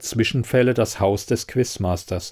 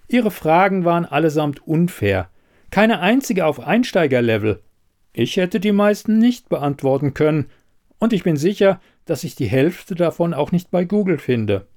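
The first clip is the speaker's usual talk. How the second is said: higher-pitched, pointed investigator voice; critical investigator; 6 semitones higher than usual. Acted. Elida accusing the quizmaster of unfair questions, pointed and critical. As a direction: lay out the charge in a higher voice.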